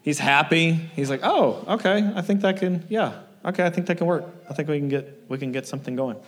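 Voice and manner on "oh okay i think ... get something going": lightly voiced client, softening and fading to quiet; mellowed caller giving in, voice dropping away; a hint of the placated contractor; calmed-down client.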